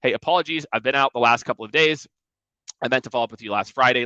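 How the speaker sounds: steady, matter-of-fact hey, apologies; confident apology. Shown as a demonstration. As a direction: own the apology, no grovelling. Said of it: "Say it with, like, confidence".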